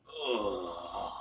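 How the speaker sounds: low guttural groan; groan noise. Retold or imitated. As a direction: mimic his heavy groan at the bar. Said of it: "he would make this groan noise".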